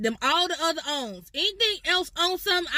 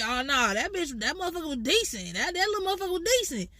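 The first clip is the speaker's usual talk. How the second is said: impressed. Pretend. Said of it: "So if somebody say".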